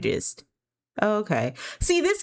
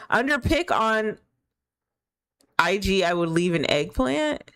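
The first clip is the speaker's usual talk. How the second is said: rising, slowed disbelieving reread; incredulous question; 3 semitones higher than usual. Real, not acted. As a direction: repeat it back in disbelief. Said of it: "Under my pictures?".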